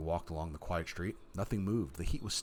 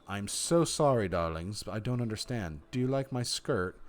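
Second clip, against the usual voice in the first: mockingly polite. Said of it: "mockingly polite".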